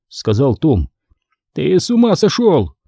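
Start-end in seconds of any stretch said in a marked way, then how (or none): 1.5-2.7 high-pitched cry of disbelief, moderate volume; shouting. A narrator's reading. Michael to Tom heading back into fire, crying out. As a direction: exclaim in a raised pitch, appalled. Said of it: "закричал Майкл".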